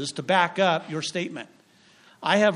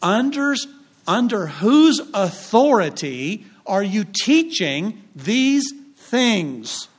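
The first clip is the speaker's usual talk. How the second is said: railing Pharisees; 4 semitones higher, slower than usual. Retold or imitated. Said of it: "when they railed against him".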